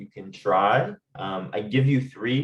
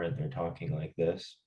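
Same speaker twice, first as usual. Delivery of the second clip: flat, softer demo of a shut-down voice with no inflection; monotone demo; 3 semitones lower, 7 dB quieter than usual. Shown as a demonstration. Teacher showing students how a shut-down person sounds, flat monotone. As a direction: drain all the tune out of it. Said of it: "they go monotone".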